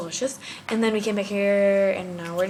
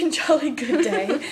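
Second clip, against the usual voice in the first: laughing; 4 semitones higher, slower than usual. Pretend. Jokey British phrase, laughing.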